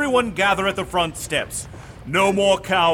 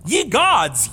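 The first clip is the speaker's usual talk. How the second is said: laughing; 4 dB louder than usual. Acted. Villain delighted by plan.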